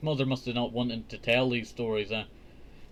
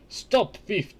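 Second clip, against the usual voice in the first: giant's roar; 7 semitones higher than usual. A narrator's reading. Giant chasing Jack who stole his harp, angry roar. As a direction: bellow after the fleeing thief. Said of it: "the giant roared".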